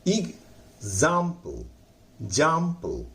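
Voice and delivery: एग्जांपल said slowly with the जाम syllable stressed; stressed jam. Shown as a demonstration. Teacher modelling the word for students. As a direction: drag out एग्जांपल, lean on जाम. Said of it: "जाम पर हम जोर लगाएंगे".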